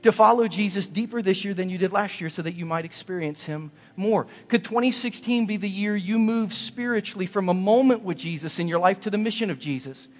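loud, high exhortation; altar-call preacher pleading loudly; preaching at full force. Acted. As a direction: press the congregation to commit.

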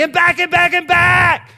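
imitating a child shouting last word; kid's yell. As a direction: yell it like a gleeful little boy. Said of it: "he would end up yelling".

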